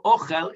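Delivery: OCHEL with the first syllable stressed; "ochel" as O-chel, weight up front. Shown as a demonstration. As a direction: hit the opening O of "ochel". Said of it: "with the stress on the o".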